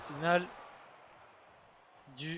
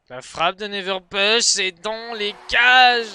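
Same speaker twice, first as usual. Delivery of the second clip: loud, drawn-out goal shout; excited goal call; 4 semitones higher, 12 dB louder, slower than usual. Acted. Goal called in live match.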